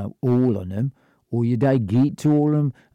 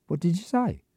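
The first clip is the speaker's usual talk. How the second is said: mock menacing; 7 semitones higher, 3 dB quieter than usual. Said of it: "And I go".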